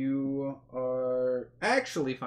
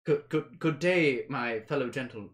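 nervous elf; 4 dB louder than usual. Acted. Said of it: "he's really struggling to".

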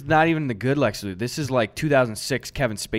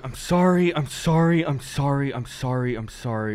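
fading repeated sorry. Retold or imitated. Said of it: "you're just going".

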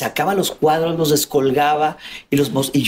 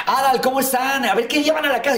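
bright, much higher welcoming father voice; cheerful dad voice; 9 semitones higher than usual. Retold or imitated. Father of a friend welcoming the kids home, high and cheerful. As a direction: greet the kids like a jolly dad.

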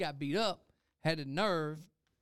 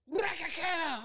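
mock hit noise; 12 semitones higher, much slower than usual. Acting out the hit.

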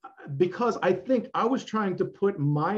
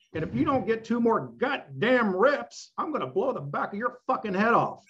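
a lightly voiced, higher-pitched intense coach; intense Mike Mentzer; 4 semitones higher than usual. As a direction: threaten like a crazed trainer, pitch raised. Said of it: "this is the way he talked".

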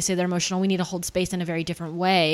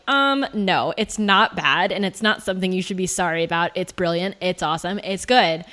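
emphatic, retold pushback; firm comeback; 4 dB louder than usual. Client answering the friend who said sorry, firmly emphatic. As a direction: push back proudly, imitating the client.

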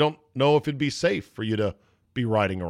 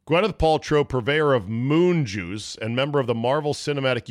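news read; 4 semitones higher than usual. Acted. Reads celebrity news item.

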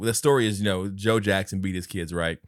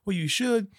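turtle voice; 11 semitones higher than usual. Retold or imitated. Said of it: "He's like".

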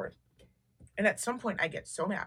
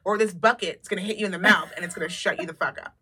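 retold loud threat; 4 dB louder than usual. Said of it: "I was like".

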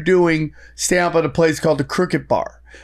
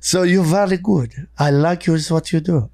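thick mock French accent; French club owner, hammed up. French accent redone on request for the host. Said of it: "Can you do the French thing one more time?".

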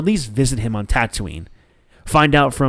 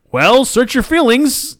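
much higher, slow, drawn-out tease; mock solemn; 12 semitones higher, 5 dB louder, slower than usual. Director teasing Mark Hamill, slow mock-solemn. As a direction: play it like a sly, grand oracle.

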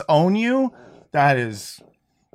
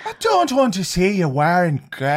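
higher, lilting mock Irish; Irish accent demo; 4 semitones higher than usual. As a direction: show how Irish should sound. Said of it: "so to do the accent".

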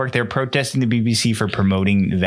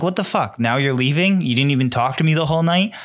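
indignant quote; 4 semitones higher than usual. Retold or imitated. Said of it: "Gigi's like".

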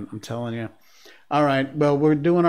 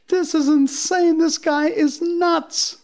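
much higher, slow astonished cry; drawn-out high wow; amazed; slower than usual. Real, not acted. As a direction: let the disbelief soar. Still amazed by the courier.

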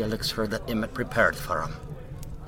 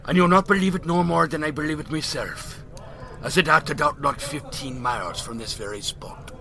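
put-on old Irish drunk; 5 semitones higher than usual. Mickey's voice continues.

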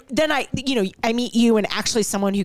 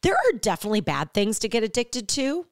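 podcast ad read. Acted. Host pausing the show for the sponsor, upbeat ad read. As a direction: sell it casually, stretching key words.

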